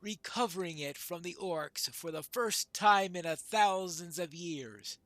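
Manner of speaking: measured storytelling, firming at the end; lightly voiced veteran dwarf. Old dwarf recalls the last moot, lightly solemn. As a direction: recount old battles in a lightly acted voice.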